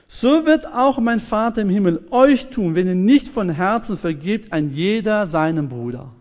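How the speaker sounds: emphatic warning, easing down at the end; solemn warning. Acted. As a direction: warn them with measured gravity. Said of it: "dann sagt der Herr als Warnung". (eindringlich warnend)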